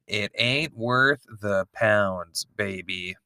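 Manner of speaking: high put-on voice for Eve, bleeping the swears; hammed-up Eve, mock dramatic plea; imitating Eve. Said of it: "Eve is just all like".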